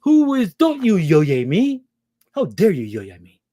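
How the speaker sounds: high, indignant mock Gentile voice; hammed-up scolding, stretching each word; mock outrage. Mocking Gentiles who scold a listener for saying yoye. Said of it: "they was like".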